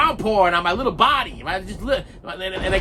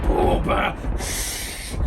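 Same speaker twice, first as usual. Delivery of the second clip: imitated storm noises; much slower than usual. Storyteller imitating thunder and rain, noisy effects. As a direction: boom and rushing rain noise.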